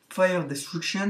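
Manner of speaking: slow, careful English accent on the name; a French gamer's shaky English accent. Shown as a demonstration. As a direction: say it the English way, a bit clumsily. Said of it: "je sais mon accent anglais est un petit peu raté".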